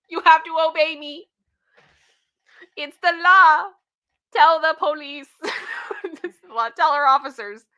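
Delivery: high, loud hammed-up mom shout; mock entitled mom. Mocking the mother's demands, hammed-up and loud.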